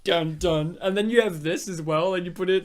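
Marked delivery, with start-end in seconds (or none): 0.0-0.8 imitated ominous music. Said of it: "you just changed the music".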